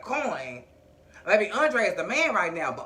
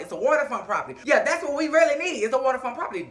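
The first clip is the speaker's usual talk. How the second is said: mocking through laughter; 4 semitones higher, faster than usual. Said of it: "That's what Andre called it".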